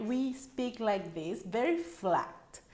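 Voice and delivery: "We speak like this, very flat" soft and level; slow down on "very flat" without inflection; very flat intonation. Shown as a demonstration. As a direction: keep "We speak like this, very flat" on an even tune. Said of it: "There are no inflections in our voice".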